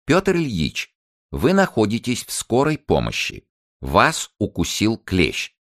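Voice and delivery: high voice, slow, spelling it out word by word; slow and deliberate. A narrator's reading. Paramedic explaining to a delirious patient, slow and deliberate. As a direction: explain slowly to a confused patient, pausing between words. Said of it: "стала объяснять мне медленно с расстановкой".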